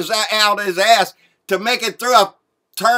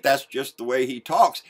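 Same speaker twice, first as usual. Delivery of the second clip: mock Junior voice; 6 semitones lower than usual. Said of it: "That's what Junior said".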